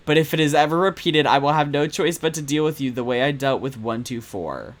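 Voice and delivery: ominous letter read. Acted. Reading Seven's letter to Percival, cold and threatening. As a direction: read it like a villain's warning. Reads menacing typed letter aloud.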